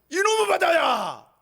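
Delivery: high, slow rebuking shout. Acted. Jesus rebukes the stormy sea with a shout. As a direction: scold the sea at full voice. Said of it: "뭐라고 꾸짖는지".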